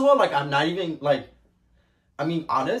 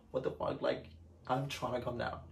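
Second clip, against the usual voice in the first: shocked whisper; 10 dB quieter than usual. Retold or imitated. Crying alone in the back.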